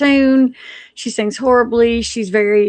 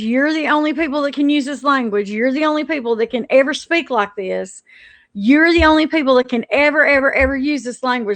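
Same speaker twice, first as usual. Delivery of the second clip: mocking pompous decree, slightly raised pitch, hurrying on the last ever; mock official quote; 3 semitones higher than usual. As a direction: parody an imagined rulebook with "only people". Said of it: "the documentation where it says".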